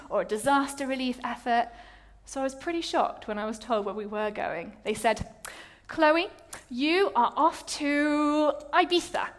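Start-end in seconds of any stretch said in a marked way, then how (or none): 5.9-9.3 slow, higher announcing voice; drawn-out announcement. Retold or imitated. Charity telling Chloe her placement, mock announcement. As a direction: reveal the destination slowly, with build-up. Mimics the team's big announcement.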